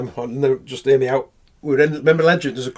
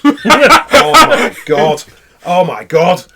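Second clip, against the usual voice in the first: laughing disbelief; 3 semitones higher, 9 dB louder, much slower than usual. Retold or imitated. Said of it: "I went".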